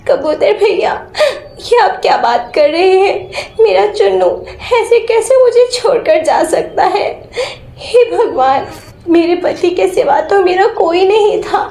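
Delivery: a wife breaking into sobs, voice high and crying; tearful wife. Acted. Widow crying to the pigeon about her husband's death, sobbing. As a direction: cry out in grief at the news.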